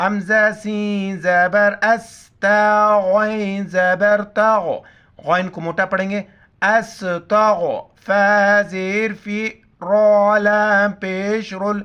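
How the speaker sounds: letter-by-letter spelling chant; spelling drill. Shown as a demonstration. Teacher spelling the word out for children, syllable chant. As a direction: sound out each letter and its vowel. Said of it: "spelling out letters with vowel marks".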